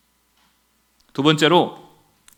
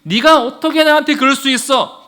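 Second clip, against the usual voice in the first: higher-pitched accusing question, mildly indignant; mock reproach; 4 semitones higher, 3 dB louder than usual. What the Lord would not say to Peter, reproachfully. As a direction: act out a hurt rebuke. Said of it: "이렇게 치조하지 않으십니다".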